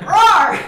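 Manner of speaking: a big playful roar mid-recap; mock half-orc roar. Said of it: "And she's like".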